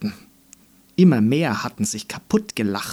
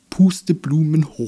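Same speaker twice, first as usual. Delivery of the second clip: mock laughter; 4 semitones higher, 5 dB louder than usual. Dandelions laughing.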